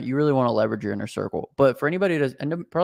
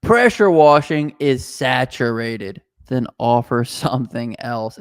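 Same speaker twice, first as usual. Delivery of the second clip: reading out a comment; 6 dB louder, slower than usual. Retold or imitated. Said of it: "I wanted to bring this one up".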